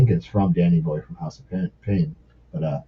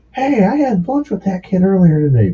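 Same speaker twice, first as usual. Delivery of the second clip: high, carrying singer's announcement; imitated stage call-out; 10 semitones higher than usual. Singer points out fan from stage, calling out. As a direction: call it over a crowd, pitched up.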